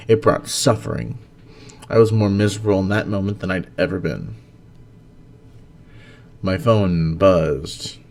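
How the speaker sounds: steady reading-aloud voice, rising at the bright moments; story narration. Acted. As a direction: read your story to a small audience. Reads his own story aloud.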